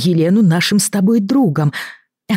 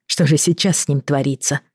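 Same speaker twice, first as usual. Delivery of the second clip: ordinary delivery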